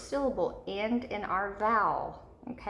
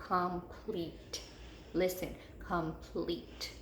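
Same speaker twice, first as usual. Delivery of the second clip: COMPLETE measured out, PLETE held on its long E; slow, careful COMPLETE, lingering on PLETE; second-syllable long E; 4 dB quieter, much slower than usual. Shown as a demonstration. Teacher asking pupils to listen, COMPLETE with a drawn second syllable. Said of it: "second syllable".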